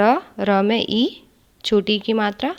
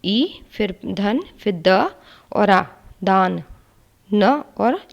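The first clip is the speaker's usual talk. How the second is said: slow spelling out; slower than usual. Shown as a demonstration. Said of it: "छोटी ई".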